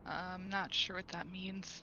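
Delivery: breathy whispered aside. Real, not acted. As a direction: whisper it under your breath. Quiet aside to table.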